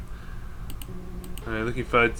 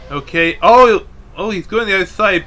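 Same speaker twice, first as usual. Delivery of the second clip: surprised; 4 semitones higher, 6 dB louder than usual. Real, not acted. Reacting to crash live.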